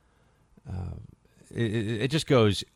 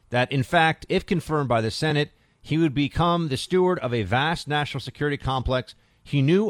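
article read aloud; 2 semitones higher, 3 dB louder than usual. Acted. Reads newspaper article aloud.

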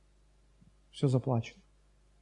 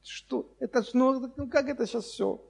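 high, slow, stunned angry owner; lightly voiced furious car owner; 8 semitones higher, slower than usual. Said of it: "орёт".

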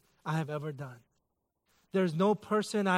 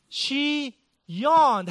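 higher and louder, hammed-up indignation; mock outrage; 7 semitones higher, 4 dB louder than usual. Preacher pretending offense at his wife's yawn, mock outrage. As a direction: play the wounded husband, big and high.

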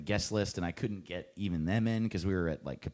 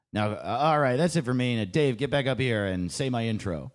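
onstage announcement; 6 dB louder than usual. Retold or imitated. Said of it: "he was like".

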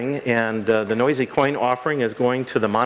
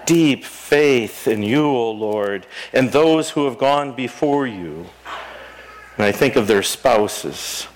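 prayer. Acted. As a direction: pray it reverently, unhurried. Leads prayers of the people.

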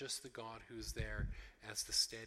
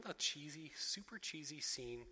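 scornful whisper; 3 semitones higher than usual. Real, not acted. Mocking a cheesy movie scene.

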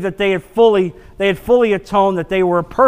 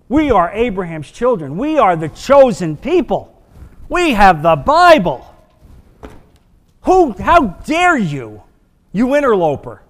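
indignant Pharisees; 3 dB louder than usual. Acted. Pharisees' indignant retort voiced.

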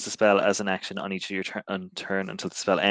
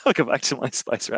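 laughing; 4 semitones higher than usual. Real, not acted. Laughing at own bit.

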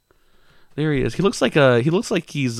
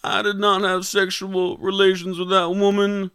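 slightly raised, halting politician voice; hesitate, then deliver a measured mock denial; hammed-up presidential impression; Bill Clinton; 6 semitones higher than usual. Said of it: "your Bill Clinton impression".

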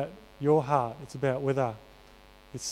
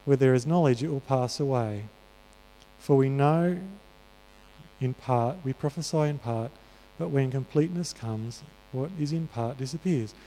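scripture reading. Acted. Preacher reads the verse to the congregation, measured. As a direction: read the passage with weight.

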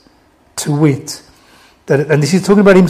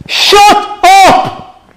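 shouted Black Country command, very high; forceful Black Country shout from God; Black Country accent; 6 dB louder than usual. Acted. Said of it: "gonna do this in my black country accent".

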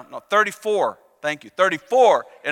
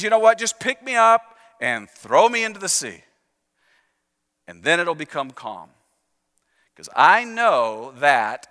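tragic play line; 3 semitones lower than usual. Retold or imitated. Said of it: "almost like a line from a tragic play".

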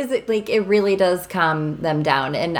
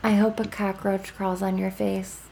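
very calm; 6 dB quieter than usual. Retold or imitated. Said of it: "he very calmly says".

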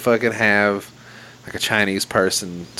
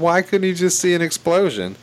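higher, exasperated question; 10 semitones higher than usual. Real, not acted. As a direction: ask it in disbelief.

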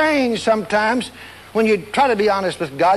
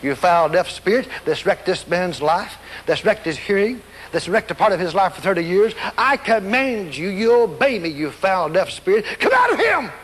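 commanding rebuke; 3 semitones lower than usual. Shown as a demonstration. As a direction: order the demon out, building to the final command. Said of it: "This is the way you do it".

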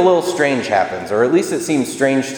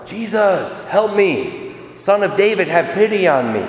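crying out; 7 semitones higher than usual. Retold or imitated. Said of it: "Bartimaeus cries out all the more".

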